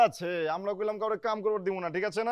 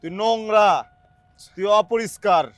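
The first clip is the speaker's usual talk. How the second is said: scolding; 6 dB louder than usual. Acted. Scolding a servant.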